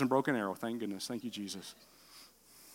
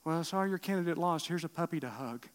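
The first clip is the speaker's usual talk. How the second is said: mock consoling; 5 dB quieter than usual. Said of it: "went out and got puppies".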